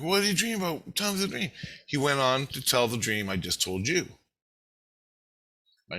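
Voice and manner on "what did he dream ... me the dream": high-pitched, curious questioning; imitated family members. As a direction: act out kids eager to hear. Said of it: "Tina and the kids are like".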